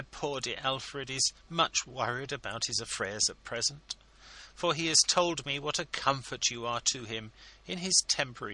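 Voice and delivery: high, effusive ladylike voice; fawning hostess; gushing society lady. A narrator's reading. Mrs Lammle voiced by narrator.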